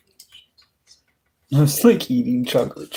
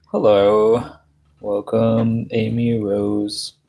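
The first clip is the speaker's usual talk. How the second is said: loud greeting; 5 dB louder, slower than usual. Real, not acted. Greeting stream viewers loudly.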